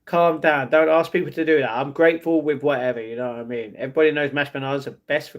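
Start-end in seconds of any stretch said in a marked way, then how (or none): none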